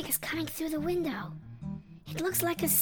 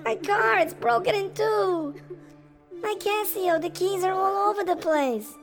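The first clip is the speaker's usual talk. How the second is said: tearful lament; 4 semitones higher than usual. Acted. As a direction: mourn each broken prize. Broken prizes, everyone crying.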